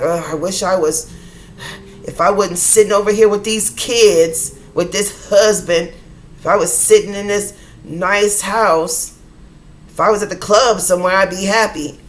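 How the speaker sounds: mock wistful woman's gripe, leaning hard on the words; complaining woman. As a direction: grumble loudly as a fed-up woman. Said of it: "I just used that voice and I used a woman".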